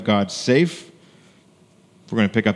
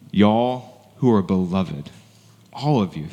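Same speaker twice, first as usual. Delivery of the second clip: Southern address; 3 semitones lower, slower than usual. Shown as a demonstration. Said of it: "to use the Southern phrase".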